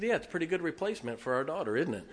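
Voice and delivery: chuckling through the line, quick; amused, laughing and fast; laughing joke. Real, not acted. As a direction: laugh as you tease. Joking to wife about puppy.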